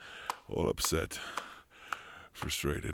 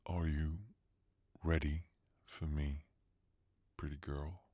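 repeated softer, ending in a whisper; quiet, sinking to a whisper; 5 dB quieter than usual. Acted. Lover repeating his question, trailing into a whisper. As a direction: drop the voice and breathe out pretty girl. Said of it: "I said".

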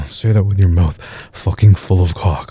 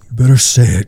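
repeated demand; 4 semitones higher than usual. Acted.

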